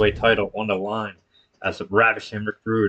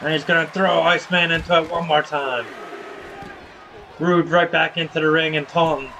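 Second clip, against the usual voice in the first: punchy ringside commentary; wrestling play-by-play; 5 semitones higher than usual. Acted. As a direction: call each wrestling move as it lands. Calls wrestling match play-by-play.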